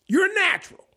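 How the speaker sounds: high-pitched farmhand exclamation; old farmhand crowing with praise; excited praise. Retold or imitated.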